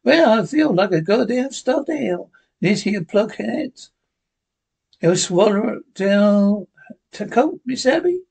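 a sidekick complaining to Abby; Jingles' voice. Acted.

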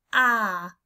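loud open "ah"; the vowel in "shop" as "ah"; short o sound. Shown as a demonstration. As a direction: open wide and say "ah". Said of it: "you say it".

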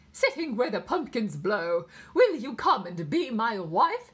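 loud, slow English nurse reciting; pure English accent. A narrator's reading. Nurse reciting verse to little girl, English accent. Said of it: "pure accents of the Sweeney's nurse".

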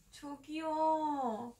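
calling out to a stranger; polite stranger. Acted. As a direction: politely get a stranger's attention. Acted skit asking a stranger.

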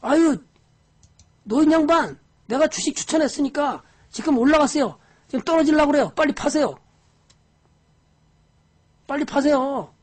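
loud, high, pushy broker urging a sale; an excited broker pressing an old investor to dump his stock; urgent broker. Retold or imitated. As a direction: nag the old man to sell now, loud and high. Broker urging old man loudly.

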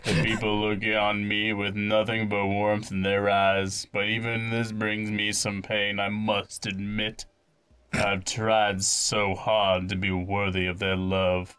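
lightly voiced, measured young chief; a hint of a solemn child leader; young chief in earnest. Young chief confiding in visitors, lightly acted and earnest. Reads game character's speech.

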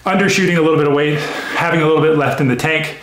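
panting between words after a set; breathless from the exercise; out of breath. Real, not acted. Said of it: "I'm out of breath, you can tell".

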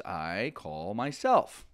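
"I call myself" said slowly, word by word; slow literal gloss. Shown as a demonstration. Teacher giving the literal gloss of the French, slow and deliberate. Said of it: "brutal, harsh, literal translation".

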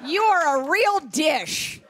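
a hint of a mom laying on the charm; hammed-up compliments to a friend's photo; mock flirty mom. Mom flirting as dad on Facebook.

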